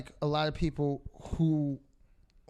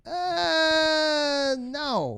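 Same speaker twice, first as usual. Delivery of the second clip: incredulous retort; 7 semitones higher, much slower than usual. Retold or imitated. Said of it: "And it's like".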